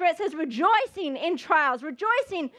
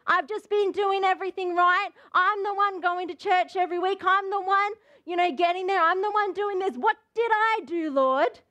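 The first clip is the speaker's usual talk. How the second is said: aggrieved list of good deeds; mildly indignant complaint to God; accusation; 2 semitones higher than usual. Acted. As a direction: protest as if unfairly treated. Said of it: "it's an accusation against the Lord".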